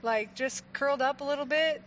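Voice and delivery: teasing impression of a dozing man; sleepy Jesus. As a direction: play it like someone curled up for a nap. Jokingly voicing sleeping Jesus.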